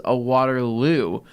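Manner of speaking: WATERLOO drawn out slowly; slow corrective repeat. Retold or imitated. Friend repeats the drink's name to a confused listener, slow correction.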